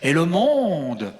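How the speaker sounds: low, measured poem recital with pauses; brother's accentless poetry voice. Acted. Farmer recites his poem as his city brother, low accentless recital. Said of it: "je prends la voix de mon frère".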